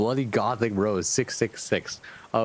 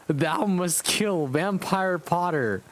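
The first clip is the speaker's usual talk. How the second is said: hammed-up villain yell, pitched higher and slow; 6 semitones higher, slower than usual. Fanfic Voldemort ordering Ebony to kill, hammed-up slow yell. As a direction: drag out the mock-evil command. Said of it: "he yelled".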